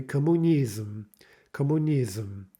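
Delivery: "Kommunism" as the Russian word, stressed near the end; syllabic final M. Shown as a demonstration. Teacher giving an example with M, Russian pronunciation. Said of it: "an example with an M".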